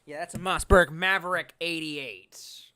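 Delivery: hushed reverent whisper. Real, not acted. Streamer naming his shotgun to chat, whisper. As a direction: whisper it like a secret treasure.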